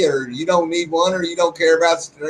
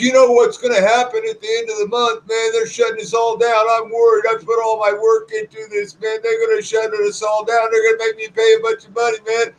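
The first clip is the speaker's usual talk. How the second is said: mock whining; 5 semitones higher than usual. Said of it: "he's just whining and complaining".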